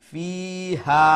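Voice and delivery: "fiha" with long fi and much longer ha; drawn-out recited "fiha", final vowel held longest; measured madd. Shown as a demonstration. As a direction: hold fi briefly, stretch ha out in "fiha". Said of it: "Fi is going to be one alif long".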